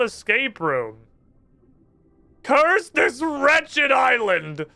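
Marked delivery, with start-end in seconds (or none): 2.4-4.7 slow, louder, higher villain proclamation; hammed-up dark wizard cursing; evil wizard curse. Dark wizard cursing the island, hammed-up villain.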